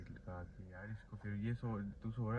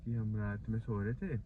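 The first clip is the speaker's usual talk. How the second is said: raised voice for the mic; to someone hard of hearing. Real, not acted. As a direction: speak up so he can be heard. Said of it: "अरे जोर से बोल".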